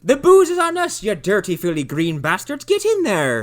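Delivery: high, loud hammed-up barker; mock rowdy host. Mocking a theme park host greeting guests, high loud barker. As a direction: shout it like a rowdy pub barker.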